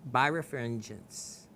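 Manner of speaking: "birefringence" at a slow, measured pace; careful, slowed-down pronunciation of "birefringence". Shown as a demonstration. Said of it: "read this real slow".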